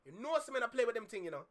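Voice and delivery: put-on quick playful Caribbean accent. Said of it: "gonna put on my Caribbean accent".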